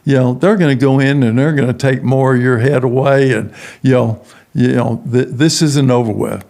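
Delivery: a hint of a mocking little devil; taunting devil. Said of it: "the little devil's on my shoulder going".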